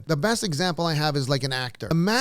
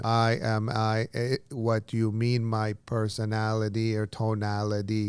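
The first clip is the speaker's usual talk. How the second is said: lower, halting teammate voice; other teammate; 4 semitones lower than usual. Retold or imitated. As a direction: imitate a hesitant, subdued reply. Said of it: "here's the other team".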